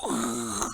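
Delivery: long, rasping breath roar; imitated lion breath. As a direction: exhale a lion's roar. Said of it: "사자". (사자처럼 확 내뿜는 숨소리)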